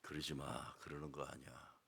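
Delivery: hushed, gentle don't; soft plea. Real, not acted. 목사가 회중에게 조용히 타이르듯이. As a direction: plead softly to the congregation. Pastor repeats gentle counsel.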